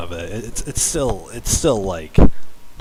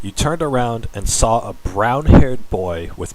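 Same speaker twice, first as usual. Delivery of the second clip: mock-earnest story reading; story narration; 4 semitones higher, 4 dB louder, slower than usual. Streamer reading fan fiction to viewers, dramatic narration. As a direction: read a cheesy fan story aloud.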